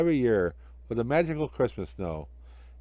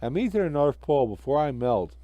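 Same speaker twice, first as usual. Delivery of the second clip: lightly voiced jolly snowman; Frosty.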